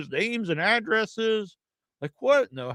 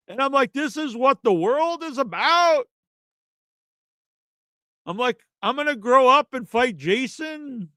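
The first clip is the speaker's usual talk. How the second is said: raised, scornful disbelief; incredulous rant; 3 semitones higher than usual. Retold or imitated. Retorting to Ebert as a kid.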